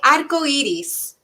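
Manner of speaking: "arco iris" said the Spanish way, tapped r, ARco stressed; Spanish pronunciation. Shown as a demonstration. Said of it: "how to say rainbow in Spanish".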